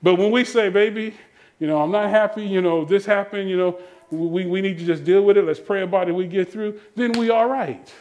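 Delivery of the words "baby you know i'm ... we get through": calm conciliatory talk. Acted. Spouse soothing partner after trouble, calm and conciliatory. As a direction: talk it through gently, without yelling. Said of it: "speak to them like a human being".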